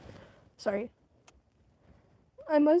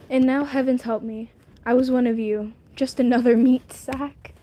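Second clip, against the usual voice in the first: dramatic lament; 6 dB louder than usual. Acted. God laments becoming mortal.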